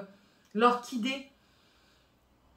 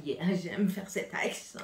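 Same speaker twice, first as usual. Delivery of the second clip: whisper; 4 dB quieter, slower than usual. Real, not acted. Whispered aside after accent.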